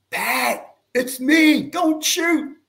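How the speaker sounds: high, loud plea not to shoot; panicked high shout to a friend; urgent call. Retold or imitated. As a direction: call out fast before he fires. Photographer calling out not to shoot.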